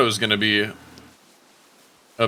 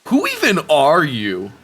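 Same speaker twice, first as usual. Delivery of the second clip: frat bro; 2 semitones higher than usual. Pretend. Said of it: "two-second frat bro impression sounds not great".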